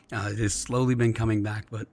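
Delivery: hoarse, scratchy voice; talking through a worn-out, scratchy throat. Real, not acted. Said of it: "it is still a bit scratchy".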